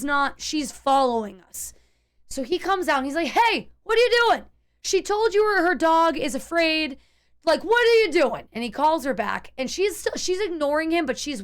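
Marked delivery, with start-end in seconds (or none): 3.3-8.5 higher, louder mock scolding neighbor. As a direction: call her out like the boyfriend. Neighbor man scolds his woman.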